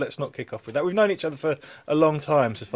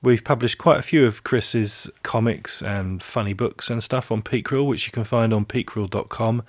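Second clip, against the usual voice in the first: podcast voice; 3 semitones lower than usual. Acted. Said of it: "Is that your podcast voice?".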